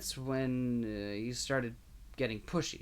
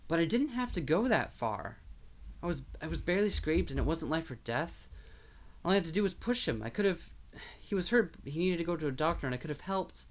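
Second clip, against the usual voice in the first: distraught; 5 semitones higher than usual. Acted. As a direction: pour it out in anguish. Diego insisting on his guilt.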